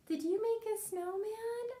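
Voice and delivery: put-on chirpy tiny character greeting the kids, slow and bright; very high cartoon critter voice; puppet voice. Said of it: "let's call Mister Stripes".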